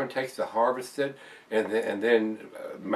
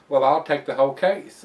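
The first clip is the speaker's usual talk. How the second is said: louder, higher quote of an eager customer; eager buyer; 6 semitones higher, 9 dB louder than usual. Retold or imitated. One guy claiming the store's only case, lightly imitated buyer. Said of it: "and he goes".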